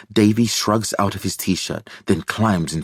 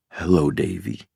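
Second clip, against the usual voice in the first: slower, calmer; 2 semitones lower than usual. A narrator's reading. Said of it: "The doctor's voice is slower, calmer than usual".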